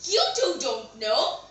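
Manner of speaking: mildly incredulous question, jumping on "What"; surprised queen. Acted. Queen hears the king does not know either, surprised. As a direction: ask it in mild disbelief. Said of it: "The queen was surprised".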